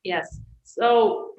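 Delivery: hoarse, worn-out voice; losing voice. Real, not acted. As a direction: speak through a fading, hoarse voice. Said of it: "I'm losing my voice".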